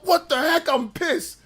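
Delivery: high, loud mock outrage; annoyed. Streamer recalling his reaction to the dog scene, outraged. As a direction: sputter it in disbelief. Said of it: "I'm thinking to myself".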